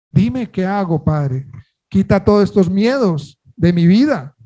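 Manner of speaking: mildly pleading prayer, lifting at the questions; modelled prayer. Shown as a demonstration. Believer asking the Father to show what is impeding, mildly pleading. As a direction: plead earnestly with God, as an example prayer. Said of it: "Digámosle al Señor".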